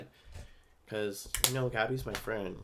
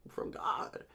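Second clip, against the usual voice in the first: whisper; 4 dB quieter than usual. Real, not acted. Awed aside about a sign.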